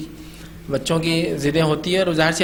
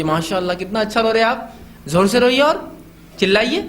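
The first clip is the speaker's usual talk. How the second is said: mock encouragement; 2 semitones higher than usual. Shown as a demonstration. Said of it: "تو آپ اس کو کہیے".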